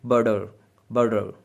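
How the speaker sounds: बटर in Cockney, the t turned into a quick d flap; Cockney butter. Shown as a demonstration. Teacher imitates a Cockney speaker saying बटर. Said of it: "Cockney English बोलने वाले ... वो कहेंगे बटर".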